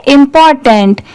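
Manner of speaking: "इंपॉर्टेंट" said quickly as one smooth word; quick fluent say; at speed. Shown as a demonstration. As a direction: run "इंपॉर्टेंट" together at normal speed. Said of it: "इसे speed में पढ़ेंगे".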